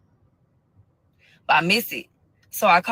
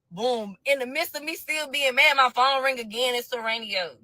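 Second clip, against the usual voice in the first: usual speaking voice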